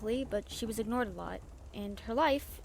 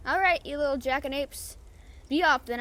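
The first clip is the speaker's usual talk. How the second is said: gruff shooing; 3 semitones higher, 7 dB louder than usual. Acted. Captain shooing kids away.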